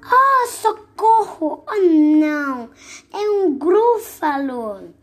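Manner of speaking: high, loud, slow hammed-up cries for help; mock panic. Mouse cries out on seeing the Gruffalo, hammed-up fright. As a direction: play a terrified little mouse for kids.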